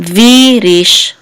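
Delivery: v drawn out and strong, rish lighter; stress on first syllable. Shown as a demonstration. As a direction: lean on v, then ease off for rish. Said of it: "more emphasis than this".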